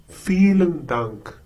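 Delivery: "vielen" said as "filen", with an F sound. Shown as a demonstration. Teacher models the sound for learners, "vielen" with an F. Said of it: "Please note that the V has the sound of F".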